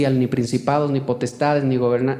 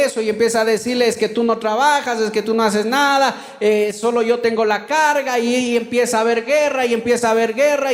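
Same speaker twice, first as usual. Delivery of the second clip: higher-pitched, relentless sermon build-up; forceful preaching; 6 semitones higher than usual. Real, not acted. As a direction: preach it as a driving list of mounting troubles.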